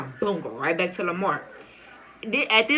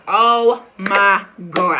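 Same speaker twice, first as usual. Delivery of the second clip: very slow, loud, drawn-out dread; frozen with fear as cops yell; stunned oh my God; 6 dB louder, much slower than usual. Retold or imitated. Police ordering her down.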